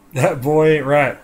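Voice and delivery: first slow stab at the Texan dad; Hank Hill. Retold or imitated. Dad grumbling about his son, light Hank Hill. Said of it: "Hank Hill".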